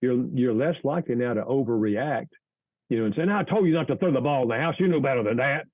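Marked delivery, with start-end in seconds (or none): 3.2-5.7 angry overreaction. Pretend. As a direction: snap at the child for breaking the rule. Parent overreacting to broken rule.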